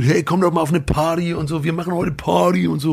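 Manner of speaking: mimicking pushy fans. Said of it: "die Leute mich dann ansabbeln".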